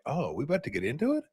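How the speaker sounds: mock worried under-breath joke; lightly voiced sarcastic aside. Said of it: "And I'm like".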